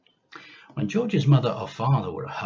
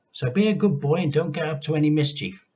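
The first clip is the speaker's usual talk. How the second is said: mother's voice; 6 semitones higher, 4 dB louder than usual. Acted.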